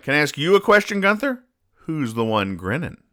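put-on a sly kid turning the tables; cheeky Newt. Newt voiced asking Gunther.

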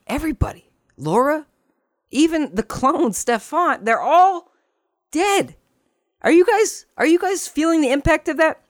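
very high, mock-devastated squeak; hammed-up grief, strained way up high; mock distress. Host recapping that they're all dead, mock distress.

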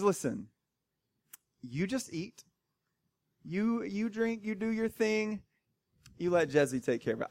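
lightly voiced schemer calming him down; soothing wife. Jezebel soothes her husband, softly and knowingly.

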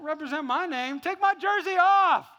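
high, loud order building to a yell; indignant rebuke. Acted. God to a gloating Christian, building indignant shout.

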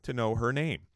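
high, exasperated grievance; real annoyance climbing to a high-pitched peak; still pissed. Real, not acted. Host still sore at the houseguest who shaved him, pissed off. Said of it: "I'm still pissed about it".

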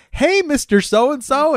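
high, slow sing-song hello; hammed-up spaced-out greeting; mock dreamy greeting. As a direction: greet thin air, high and drawn out. Tripping, greeting nobody.

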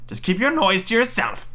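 high, scolding witch voice; old witch. Acted. Witch silencing weeping Gretel, high scolding voice. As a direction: snub the girl in a high old-woman voice. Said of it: "said the old woman".

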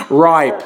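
"Ripe." said as Australian "rape" with an open "ai" vowel; Australian pronunciation. Shown as a demonstration. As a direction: say "Ripe." the Aussie way, "rape" sounding like ripe. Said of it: "the Australian pronunciation of rape".

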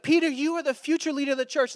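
high, excited proclamation; gushing praise. Acted. Jesus naming the disciple future church leader, high excited praise. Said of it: "one second, he's like".

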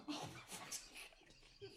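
exasperated under the breath; muttered groan. Acted. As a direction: mutter it like a fed-up guard. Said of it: "you hear one of them go".

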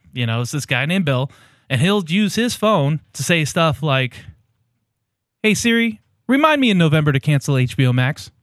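hammed-up sponsor spot, lightly pitched; mock ad read. Podcast host hamming up a fake sponsor read for Brian. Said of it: "doing one of these mock ads".

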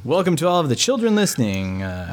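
lightly voiced TV announcer greeting the kids; mock announcer. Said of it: "Or seventies cop show character".

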